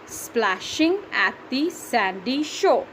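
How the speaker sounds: Splashing at the sandy shore drawn out slowly again; slow measured reading for counting; slow syllable reading. Shown as a demonstration. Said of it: "That's seven".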